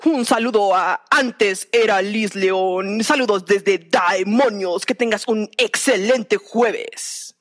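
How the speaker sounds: slow, drawn-out demon voice. Acted. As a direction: intone it slowly like a demon. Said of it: "voy a tratar de hacer mi mejor imitación del demonio".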